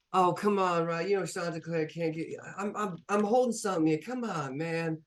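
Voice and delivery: high, pleading little robot voice; high eager little helper pleading; whiny little robot. Acted. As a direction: beg for the screwdrivers like a helpless small bot. Small robot pleads with partner.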